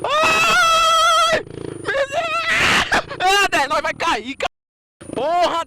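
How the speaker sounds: high, loud panicked shriek; terrified scream. Real, not acted. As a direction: scream like you're about to fall. Scared on a tilting motorbike.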